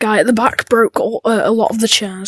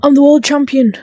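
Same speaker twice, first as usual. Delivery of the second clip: louder, higher triumphant boast; proud boast; 4 semitones higher, 5 dB louder than usual. Acted. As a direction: announce your win to the room. Boasting after winning a solve.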